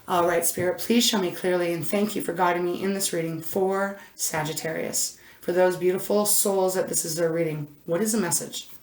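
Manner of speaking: soft, hushed plea to Spirit; a calm, hushed request for guidance; quiet prayer. Real, not acted. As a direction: pray quietly, almost under the breath at the end. Asks Spirit before the reading.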